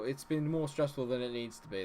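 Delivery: ordinary talk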